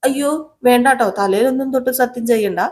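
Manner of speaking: alarmed Revathi. Retold or imitated. Revathi stops Sachi swearing oath.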